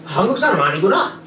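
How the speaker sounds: lightly acted cab driver, rising and falling; imitated cab driver. Driver judging his Korean-speaking passenger, lightly mimicked.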